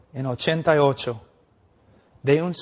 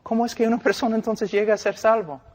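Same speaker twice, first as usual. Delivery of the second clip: questioning listener; 5 semitones higher than usual. Retold or imitated. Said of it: "Tú dices".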